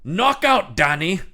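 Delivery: hammed-up villain sneer; villain taunt. Villain quote, rising then slow.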